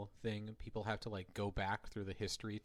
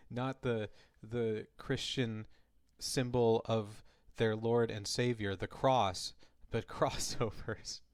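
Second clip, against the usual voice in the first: slow, louder, mock-serious explanation; mock solemn; 6 dB louder, slower than usual. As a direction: drag it out like a grave sermon. Parodying co-host's joke.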